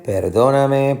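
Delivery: perdóname stressed on DÓ, pitched high; stress on second syllable. Shown as a demonstration. Teacher testing stress options, second-syllable stress on perdóname. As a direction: hit per-DÓ-na-me. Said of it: "Va a ser perdóname".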